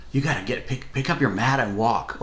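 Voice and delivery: a mild eager lift on "pick up your mat and walk"; excited invitation. Retold or imitated. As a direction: say "walk" like good news, lightly voiced. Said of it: "was one of excitement".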